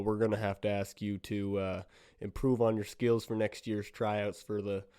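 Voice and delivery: put-on slight Southern accent, slowing down; a touch of Southern in a polite refusal. Judge turning down Missus Bear, lightly Southern accent. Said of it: "why am I talking Southern?".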